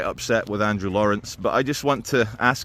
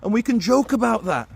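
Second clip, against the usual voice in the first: a higher, put-on Brummie accent; a light Brummie accent, joking about it; 10 semitones higher than usual. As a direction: say it like a Brummie, teasing. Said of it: "what we call Brummie".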